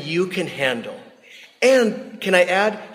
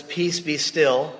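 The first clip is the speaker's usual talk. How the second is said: calm command; much slower than usual. Retold or imitated. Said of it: "and says".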